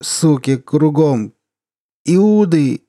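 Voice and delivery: put-on loud, slow drunken curse; drunken rage. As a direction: bellow it out drunk. Drunk outburst.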